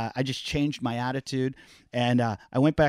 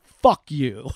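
retold shout; 6 dB louder than usual. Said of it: "I go".

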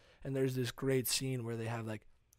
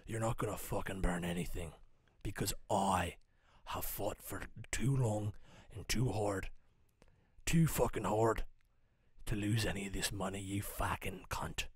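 put-on Irish accent; 4 semitones lower than usual. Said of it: "I think Ireland".

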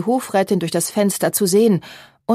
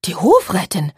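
startled. A narrator's reading. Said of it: "rief Charlotte erschrocken".

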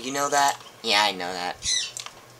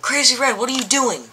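shocked; 9 semitones higher than usual. Acted. Catching villain in the act.

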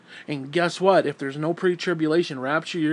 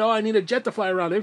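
higher, quick mock pleading; mocking swindler; 4 semitones higher, 3 dB louder, faster than usual. Ranter imitates preachers swindling people, higher quick mocking voice. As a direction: rattle it off in ridicule.

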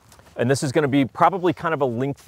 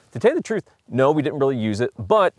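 much higher voice quoting a friend; imitating a buddy; 4 semitones higher than usual. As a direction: play the curious buddy, pitched up. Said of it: "he's like".

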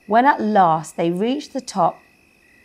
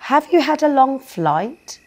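higher, louder friendly troll; 7 semitones higher, 4 dB louder than usual. Acted. Troll to the fairies, high friendly greeting. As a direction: greet them like a jolly troll.

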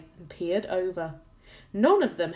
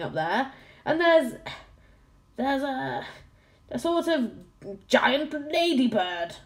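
flustered captain; 3 semitones higher, 3 dB louder than usual. Acted. Captain peering through telescope.

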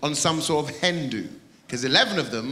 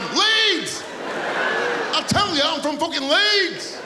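proud Leeds man; 12 semitones higher than usual. Pretend. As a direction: crow the hometown like a proud local. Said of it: "he's, he's proud".

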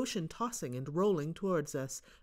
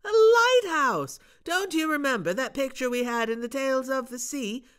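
put-on high, loud eager boy; excited call; 9 semitones higher, 8 dB louder than usual. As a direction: urge him up, thrilled. Bob calling down excitedly.

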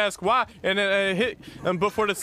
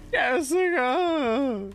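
anguished call; 6 semitones higher, much slower than usual. Real, not acted. Teammate dying, calling out.

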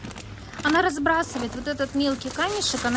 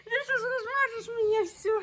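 laughing; 9 semitones higher, 7 dB quieter than usual. Real, not acted. Child smearing lipstick.

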